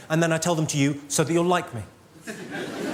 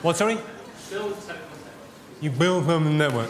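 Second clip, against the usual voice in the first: mock broken English. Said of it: "What, what do you do?".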